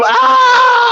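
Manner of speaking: high, loud imitated scream; hammed-up horror scream; mock scream. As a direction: scream along with the victim. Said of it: "I'm screaming with him".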